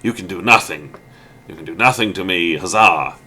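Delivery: lightly acted villainous gloat; mock taunting. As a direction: taunt a helpless rival, half playfully. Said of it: "taunting him, going".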